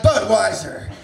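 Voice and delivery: mock beer ad. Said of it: "I hold up a Budweiser and I'm like".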